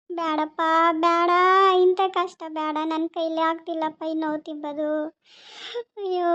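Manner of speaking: soft, despairing plea breaking into sobs; crying. Acted. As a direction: plead weakly through tears, sinking into a wail. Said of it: "Ganga ಅಳ್ತಿದ್ದಂಗೆ ಇದಲ್ಲ". (ಅಳುತ್ತಾ ನೋವಿನಿಂದ ಬೇಡುವ ಧ್ವನಿ)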